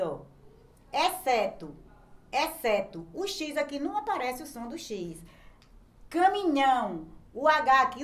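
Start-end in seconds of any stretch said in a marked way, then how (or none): 0.9-3.1 "exceto" said distinctly, XC as one s sound; careful pronunciation demo. Shown as a demonstration. Teacher showing pupils the silent X, "exceto" with a single s sound. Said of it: "Quando eu falo aqui". 6.1-7.1 "Caminhão" said firmly, NH as one sound; louder, distinct "Caminhão" with no separate H; careful pronunciation demo. Shown as a demonstration. Teacher showing pupils the silent H, distinct "Caminhão". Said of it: "o som não aparece".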